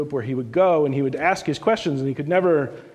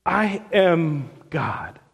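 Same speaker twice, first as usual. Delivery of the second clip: slow reverent answer; much slower than usual. Retold or imitated. Jesus answers, slowly.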